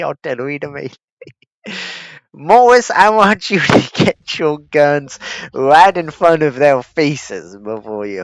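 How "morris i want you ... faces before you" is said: high, loud officer order; commanding shout. Pretend. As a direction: bark orders at the gunners. Ordering artillery forward.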